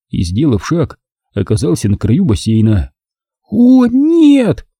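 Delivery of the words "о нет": high, louder desperate cry. A narrator's reading. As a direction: cry out in despair before the fall. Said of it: "отчаянно закричала Нина".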